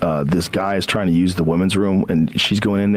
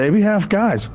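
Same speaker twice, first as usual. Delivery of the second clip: punchline shout; 11 semitones higher than usual. Retold or imitated.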